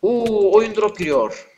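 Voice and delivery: high, loud panic at the lag; real alarm, loud and high; alarmed outcry. Real, not acted. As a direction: yelp as the game stutters. Game lag hits mid-fight.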